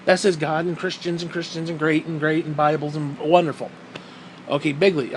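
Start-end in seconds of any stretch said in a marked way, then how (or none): 1.7-5.2 low mock Trump voice. Comedian mocking Trump's speech, low mock voice. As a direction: sneer out bigly like Trump. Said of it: "he can say a nice speech".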